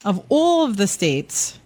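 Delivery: slow, deliberate attempt at an American accent. Shown as a demonstration. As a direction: measure out each word in careful American. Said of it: "a more American accent".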